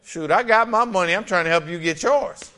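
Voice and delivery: punchy, driving sermon delivery; emphatic preaching. Real, not acted. Preacher urging the church to help others get healed, emphatic. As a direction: preach it with rising force.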